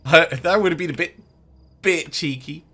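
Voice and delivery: laughing high and loud; giggling through the words. Real, not acted. Laughing at cheeky idea.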